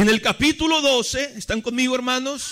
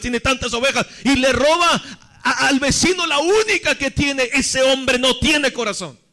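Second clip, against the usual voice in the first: imitating an enraged king, pitched up; preacher acting out an outraged verdict; indignant anger; 3 semitones higher than usual. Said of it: "se enojó y dijo". (indignado, imitando a un rey enojado)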